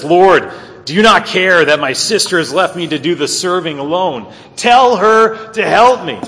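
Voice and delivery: lightly voiced frazzled Martha pleading; exasperated. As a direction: Martha complaining to Jesus, mildly exasperated. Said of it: "You can hear the exasperation in her voice".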